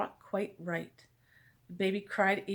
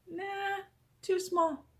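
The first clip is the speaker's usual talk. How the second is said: dismissive doctor; 10 semitones higher, much slower than usual. Acted. Doctor rejects longer needle.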